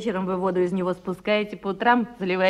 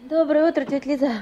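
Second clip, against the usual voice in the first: bright morning hello, higher and louder; cheerful greeting; 6 semitones higher, 4 dB louder than usual. Acted. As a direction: call out a cheerful good morning. Young tenant greets the cleaner. (бодро и звонко здороваясь с тётей Лизой)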